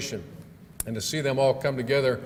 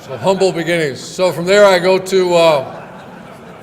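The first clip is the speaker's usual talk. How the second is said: talking through his own laughter, louder and higher; laughing; 5 semitones higher, 12 dB louder, slower than usual. Real, not acted. Speaker to the audience after a joke, laughing. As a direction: laugh the words out after the punchline.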